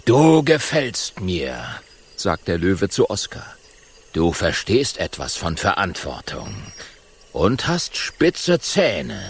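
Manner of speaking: lightly voiced lion, approving. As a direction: praise him like a proud king. Lion praises Oskar.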